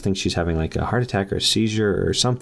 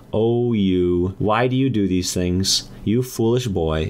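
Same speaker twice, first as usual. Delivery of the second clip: slow, drawn-out mock maternal scolding; scolding mom; slower than usual. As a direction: lament at a foolish son, drawing it out. Voiced mom scolds son on phone.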